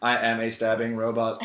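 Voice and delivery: even machine gun syllables; mock robot, flat and even. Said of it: "I sound like a robot".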